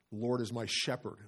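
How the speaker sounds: weight falls on the closing word "shepherd"; stress on SHEPHERD. Shown as a demonstration. Pastor showing his verse study, stress on SHEPHERD. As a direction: lean on SHEPHERD at the end. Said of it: "emphasizing each word".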